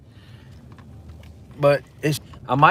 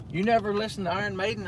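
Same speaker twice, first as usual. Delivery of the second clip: put-on Danish accent; 7 semitones higher, faster than usual. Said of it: "In his Denmark accent".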